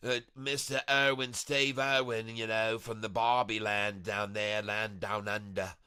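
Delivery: put-on Australian accent; jokey, lightly voiced Australian accent; Steve Irwin. Streamer imitating a friend from down under, mock Australian accent. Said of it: "speak right here like my friend Chris".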